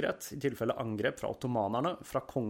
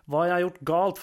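stammering; 7 semitones higher, 6 dB louder than usual. A narrator's reading. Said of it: "forsøkte hun å stotre".

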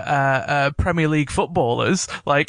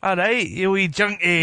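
jokey put-on Scottish accent; 2 semitones higher than usual. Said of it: "gonna be a Scottish podcast".

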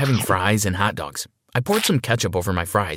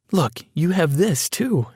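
higher-pitched smiling woman's voice; 7 semitones higher, slower than usual. A narrator's reading. Adoptive mother showing off the new room, smiling. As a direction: show it off slowly with a smile. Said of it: "Emily smiled".

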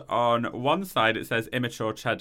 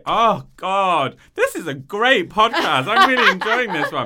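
loud laughing, high and slow; real delighted laughter through words; 6 semitones higher, 7 dB louder than usual. Real, not acted.

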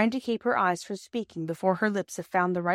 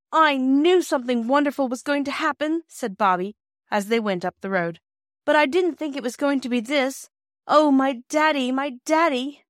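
higher, louder, bursting with happiness; overjoyed girl; 5 semitones higher, 4 dB louder than usual. Acted. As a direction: gush it like a child who got her wish. Bobby walks home with father.

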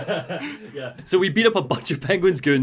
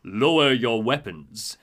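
Strange; 5 semitones lower than usual. Retold or imitated. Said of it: "and Strange is like".

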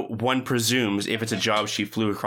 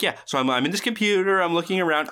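higher-pitched, eager anecdote voice; eager storyteller; 7 semitones higher, faster than usual. Retold or imitated. Joey desperately trying to impress the guys, eager and high. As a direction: act out someone keen to impress. Acting Joey's interrupted anecdote.

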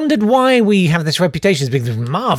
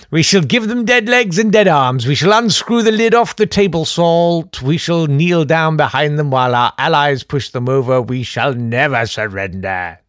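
Boris Johnson; 2 semitones lower than usual. Acted. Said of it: "Boris Johnson's speech yesterday".

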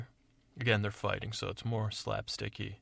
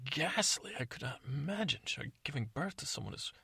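flattering prince; 4 semitones higher, 4 dB quieter than usual. Acted. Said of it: "he said".

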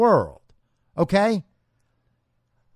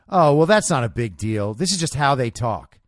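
lower, offhand mock of the caller; blithely dismissive; 5 semitones lower than usual. Host mimicking Kami brushing it off, low and offhand. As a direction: toss it off like it's nothing. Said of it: "just blithely say".

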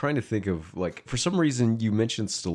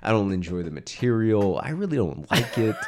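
mock confession. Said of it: "It's like".

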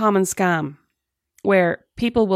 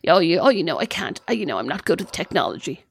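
imitating Mum; 3 semitones lower than usual. Friend mimics caller pleading bad at technology, lightly mumsy. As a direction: stumble through excuses in a mild mock-mum voice. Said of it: "that's why I'm doing her voice".

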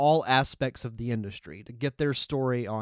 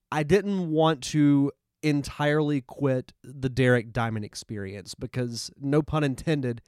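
nasal voice. Real, not acted. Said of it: "if I sound a little nasally".

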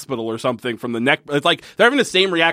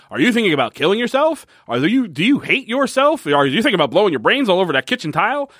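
hard sell ad; 4 semitones higher than usual. Retold or imitated. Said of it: "doing it to the style of a commercial".

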